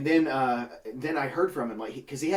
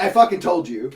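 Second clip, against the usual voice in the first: loud, laughing told-you-so; laughing gloat; 5 semitones higher, 11 dB louder than usual. Retold or imitated. Gloating at the manager, laughing. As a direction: crow it while laughing.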